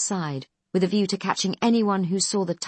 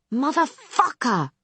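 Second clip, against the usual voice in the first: high, loud, slow furious yell; 8 semitones higher, 5 dB louder, slower than usual. A narrator's reading. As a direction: scream it at him with the stress on "fuck". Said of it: "she yells".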